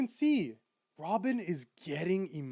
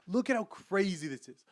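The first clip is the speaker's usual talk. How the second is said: excited; 3 semitones higher than usual. Real, not acted.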